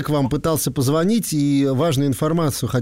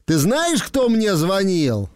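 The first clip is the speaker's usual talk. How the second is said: slow teasing question, rising on "Ты знаешь"; drawn-out "кто мне звонил" like a riddle; 2 semitones higher, much slower than usual. Shown as a demonstration. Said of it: "позвоните ему и скажите это".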